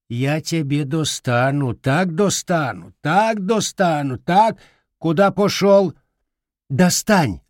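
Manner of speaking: threatening granny. Acted. Grandmother threatening the boy, rising to a shrill shout.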